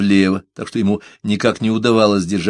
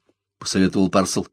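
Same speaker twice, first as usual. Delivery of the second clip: ordinary delivery, nothing marked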